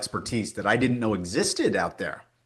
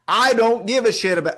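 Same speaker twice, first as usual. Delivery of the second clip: angry outburst; 10 semitones higher, 5 dB louder than usual. Retold or imitated. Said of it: "he said".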